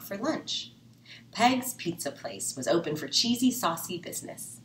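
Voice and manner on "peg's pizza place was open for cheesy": plain reading voice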